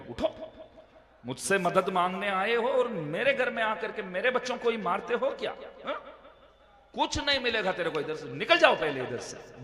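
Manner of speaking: mild retold anger, ordering him out; angry scolding. Host angrily throws him out. (मेज़बान का हल्का गुस्से वाला डांटना)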